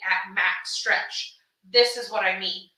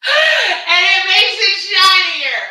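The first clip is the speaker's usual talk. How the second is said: excited, drawn out; 8 semitones higher, 12 dB louder, much slower than usual. Real, not acted. Excited over shiny fabric.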